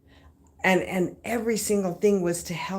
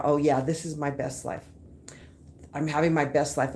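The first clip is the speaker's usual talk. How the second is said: dry, eye-rolling take on best life; sarcastic; 3 semitones lower than usual. Retold or imitated. The speaker mocks her own first attempts at affirmation, sarcastic. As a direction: say it like you don't believe a word. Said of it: "I was real sarcastic at first".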